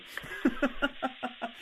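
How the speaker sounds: soft, breath-only laugh; quiet chuckle without voice; real laugh. Real, not acted. Host amused after asking guests for message, soft laugh.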